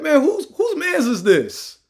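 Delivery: loud, high mocking dismissal of an outsider; comic loud get-him-out-of-here bit; barbershop clowning. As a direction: run him out like the guys at the barbershop. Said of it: "They'd be like".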